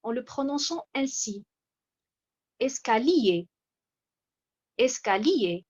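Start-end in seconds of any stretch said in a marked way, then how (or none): 2.6-3.5 "escalier" with a firm push on the final -lier; stress on last syllable. Shown as a demonstration. Teacher showing a misplaced stress, final syllable of "escalier" pressed. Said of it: "si j'accentue assez fort la dernière". 4.8-5.6 "escalier" with the final -lier pressed; stress on last syllable. Shown as a demonstration. Teacher repeating the example, last syllable of "escalier" stressed. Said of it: "en pressant un peu sur cette dernière syllabe".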